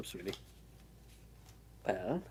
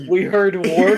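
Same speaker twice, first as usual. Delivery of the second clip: goblin chorus; 7 semitones higher, 11 dB louder, slower than usual. Acted. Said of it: "Just like".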